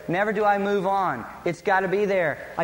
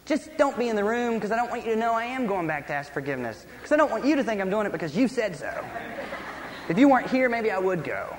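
quick, higher-pitched mock protest; wounded pride; 3 semitones higher, faster than usual. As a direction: act out a stubborn, prideful inner argument. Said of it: "and then pride comes up".

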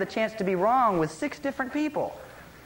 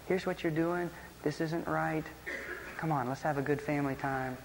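lower, softer imitation of a wife's gentle correction; loving rebuke; 3 semitones lower, 5 dB quieter than usual. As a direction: gently take your husband to task. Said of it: "came over very lovingly and said".

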